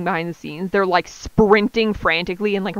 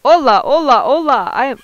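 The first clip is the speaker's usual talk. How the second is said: loud, lilting mock Spanish accent; hammed-up Spanish greeting, raised pitch; 4 semitones higher, 5 dB louder than usual. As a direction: start in a showy Spanish accent. Starts reading the Spanish guru.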